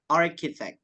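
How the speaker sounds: "Architect" with CH said as K; CH dibaca K. Shown as a demonstration. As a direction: demonstrate "Architect" for learners, hard K. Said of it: "C H-nya kita baca K". ("Architect" dengan bunyi K pada CH)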